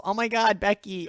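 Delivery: squeaky high mock girl shriek; high-pitched girl voice. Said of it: "he did this, like, high-pitched girl voice".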